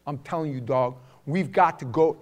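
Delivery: put-on Brooklyn buddy's New York accent; lightly done New York accent. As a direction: imitate a friend's heavy New York talk. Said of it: "he would have the worst New York accent".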